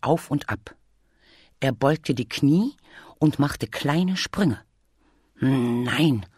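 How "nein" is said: a drawn, low groan of no. A narrator's reading. Bear gives up on his hops, groaning. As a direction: groan it out, lightly. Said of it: "stöhnte er".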